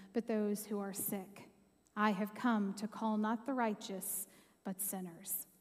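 measured Bible reading aloud; scripture reading. Real, not acted. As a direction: read the passage with reverence. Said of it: "I'm gonna read that now for us".

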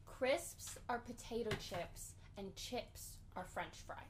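slow, deliberate clarification; slow explanation. Real, not acted. Explaining crisps and chips to a confused friend, slow and deliberate. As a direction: spell it out slowly.

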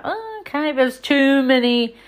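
high, hesitant Oh, okay; a touch of awkward shrug; mock unsure. Lead actor in the last film, high and unsure. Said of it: "he was a bit like".

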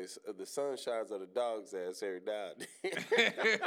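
laughing through a dad saying; amused retelling of a father's saying; quoting dad, laughing. Retold or imitated. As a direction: chuckle while passing on the proverb. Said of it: "he used to say".

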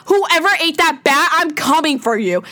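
fired-up vow of revenge at the virus; heated threat. Real, not acted. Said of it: "I'm so heated right now".

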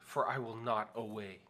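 hammy stage Juliet, slow and drawn out; Shakespearean Juliet. Pretend. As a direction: overdo it like a stage actor. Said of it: "do your best Shakespearean actor being Juliet".

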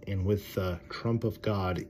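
stately Bible phrase; scripture reading. Acted. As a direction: proclaim it slowly as scripture. Reads phrase again in the scripture.

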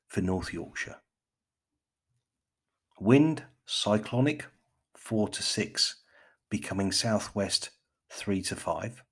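slow, deliberate BBC forecast delivery; BBC accent. Pretend. Podcaster parodies the shipping forecast, mock BBC accent. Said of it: "put on my best B B C".

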